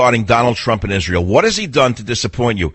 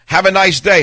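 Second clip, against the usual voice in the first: sing-song pleasantry; 7 semitones higher, 4 dB louder than usual. Retold or imitated. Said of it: "Whatever you'd say".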